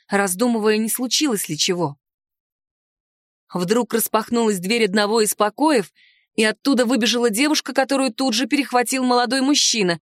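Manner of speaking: usual speaking voice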